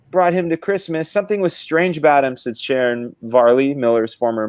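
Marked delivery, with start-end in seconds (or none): 0.1-2.4 lightly voiced mother-in-law, pitched up; hint at an older relative, a little higher. Former mother-in-law recalls a Christmas, lightly acted higher voice.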